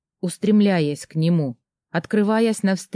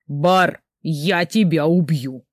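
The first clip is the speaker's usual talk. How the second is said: shouting at the door; slower than usual. Acted. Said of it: "громко крикнул он в сторону двери".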